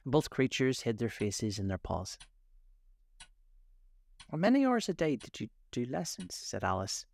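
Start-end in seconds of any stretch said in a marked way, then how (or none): 4.3-6.3 hurried. A narrator's reading. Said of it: "in a hurry to change the subject".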